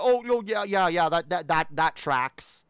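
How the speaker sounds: sarcastic mock agreement. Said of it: "and it's like".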